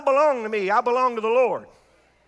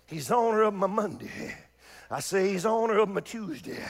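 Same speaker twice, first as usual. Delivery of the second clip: preacher climbing from a murmur to a shout; preaching build. Real, not acted. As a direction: build the litany from hush to roar. Litany builds from soft to shout.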